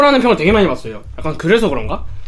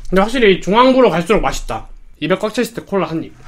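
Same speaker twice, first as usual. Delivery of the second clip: talking while chewing; speaking around food; mouth full. Real, not acted. Seen 1: Cheeks bulge chewing while holding burger; cola drunk only later.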